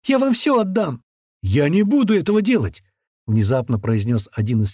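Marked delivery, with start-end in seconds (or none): 0.0-1.0 very high, tearful woman's begging; high weepy entreaty; desperate plea. A narrator's reading. Crying woman offers everything. 1.4-2.8 high, raised-voice refusal; desperate refusal. A narrator's reading. Captive man refuses.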